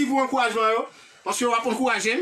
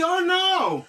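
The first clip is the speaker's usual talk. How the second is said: higher, dismayed oh no; acted dismay; 5 semitones higher than usual. Shown as a demonstration. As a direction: react in mock dismay. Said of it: "M di". (ti sezisman jwe)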